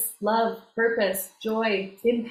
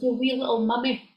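put-on daughter's playful Scottish accent; Scottish accent, lightly put on; imitated Scottish accent; 3 semitones higher than usual. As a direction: mimic a child's teasing Scottish accent. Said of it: "can do a perfect Scottish accent".

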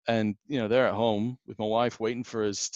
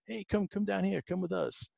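high friendly call; 10 semitones higher, 5 dB quieter than usual. Retold or imitated. Player calls child over, retold.

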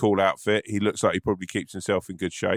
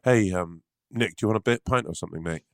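hurried, lightly put-on mate voice; mate offering a pint in an odd voice; 3 semitones lower than usual. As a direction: rush the offer in a slightly odd voice. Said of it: "I don't really like what you're doing with that voice".

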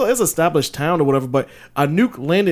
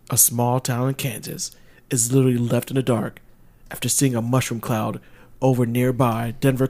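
movie trailer voice; 3 semitones lower, 3 dB quieter than usual. Shown as a demonstration. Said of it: "read it in your movie voice".

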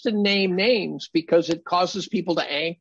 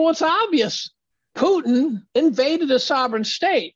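mock smug opponent; 7 semitones higher than usual. Mimics opponent's smug answer.

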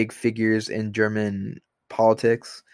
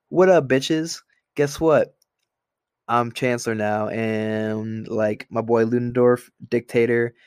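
cocky Hitler impression.

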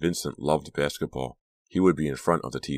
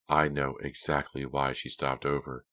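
cold; 3 dB quieter than usual. Acted. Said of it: "Delia said coldly".

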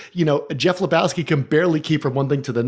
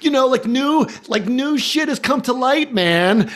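imitating the Dude; 10 semitones higher, slower than usual. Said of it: "He's like".

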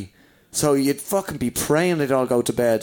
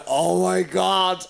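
drawn-out, exclaimed mother's horror; mock freak-out; 4 semitones higher, much slower than usual. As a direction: imitate ma freaking out, stretching it slowly. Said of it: "freaking out".

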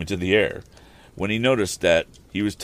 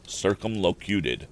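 savoring the word; slower than usual. Shown as a demonstration. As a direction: linger over circumlocuted, amused. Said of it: "I don't know anybody who's ever said those words".

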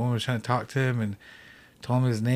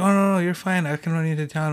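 higher, louder friendly insistence; acting out an eager offer; insistent reassurance; 6 semitones higher, 5 dB louder than usual. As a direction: wave away the worry, retold. Retold driver brushing off his refusal.

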